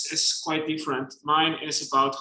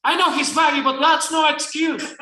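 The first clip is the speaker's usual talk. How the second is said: principal's shout; 9 semitones higher, 4 dB louder than usual. Acted. Principal scolds in read story.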